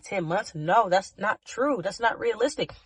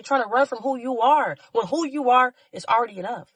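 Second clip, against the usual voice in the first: passionate; 4 semitones higher than usual. Real, not acted. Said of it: "I'm sorry that I'm so upset right now".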